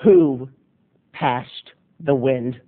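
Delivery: low, slow question through a pinched nose; teacher holding her nose, low and slow. Retold or imitated. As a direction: hold your nose and ask sternly. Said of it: "clasping her nose together".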